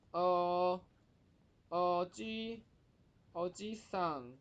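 "おじさん" with the じ vowel held long; lengthened vowel. Shown as a demonstration. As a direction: stretch the じ in "おじさん" into a long "jii". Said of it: "西的地方要再拉长".

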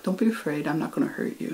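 softly voiced, mild retold reassurance; gentle reassurance. Boy tells the wary deer not to fear, gently reassuring. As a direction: soothe a timid animal, quietly.

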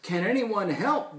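lightly voiced worried character; yelping plea. A narrator's reading. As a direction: ask with a mild yelp. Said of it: "Beast asked with a yelp".

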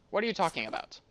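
badly faked Russian accent, questioning; amateur Russian accent. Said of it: "Went from a Russian accent".

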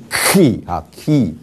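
"key" starting on a heavy throat ch; guttural onset. Shown as a demonstration. Teacher gives the letter's name, guttural "key". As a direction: scrape the throat into a long "key". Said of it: "key是很重的喉音".

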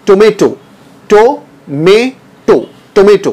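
टोमेटो with an o sound at the start, to-may-to; English pronunciation. Shown as a demonstration. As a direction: say टोमेटो the English way, not टमाटो. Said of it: "टमाटो नहीं इसको English में कहना है". (टोमेटो अंग्रेज़ी तरीके से)

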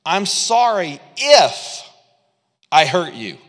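slow, dragged-out sorry; fake apology. Loophole apology quoted, mock insincere. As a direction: stretch the if. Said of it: "the loophole apology".

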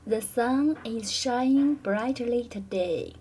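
sun is shining brightly today said with clearer individual words; clearer pronunciation. Shown as a demonstration. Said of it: "That's much better. The individual words are clearer".

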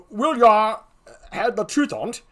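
folksy put-on gravedigger; comic clown with slurred country wording; second clown.

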